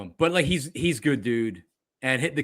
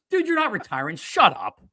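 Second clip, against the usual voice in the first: high exasperated start, dropping to a curt finish; mock dismissive rant; 5 semitones higher than usual. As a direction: replay an annoyed brush-off. Replaying his own dismissive take.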